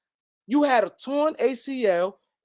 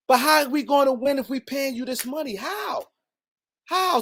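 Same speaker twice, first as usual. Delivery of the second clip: heated shout; 4 semitones higher than usual. Real, not acted. Heated rant on paying Klay.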